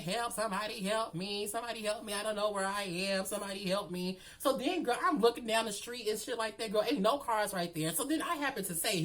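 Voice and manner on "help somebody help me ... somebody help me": mock screaming for help. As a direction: imitate a damsel's repeated cries. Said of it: "I'm still screaming".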